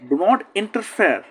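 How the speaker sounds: each word slow and deliberate; slow classroom model of the phrase; slow model reading. Shown as a demonstration. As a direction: spell it out slowly for learners. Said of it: "teacher models the phrase slowly".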